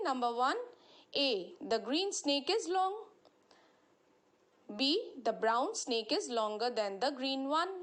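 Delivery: slow, deliberate reading of the rule; measured classroom read-aloud; textbook reading. Acted. Reads exercise sentences aloud.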